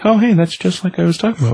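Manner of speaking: high, fast excited aside. Real, not acted. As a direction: blurt it out eagerly.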